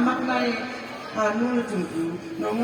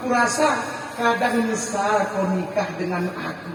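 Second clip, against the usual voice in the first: wife's worried question. Acted. Khadijah voiced.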